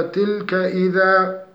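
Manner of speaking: إذا ending in a long a, no nun; pause form of إذا. Shown as a demonstration. Teacher demonstrates stopping on إذا. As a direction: stop on إذا with a plain long vowel. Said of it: "إذا وقفنا عليها".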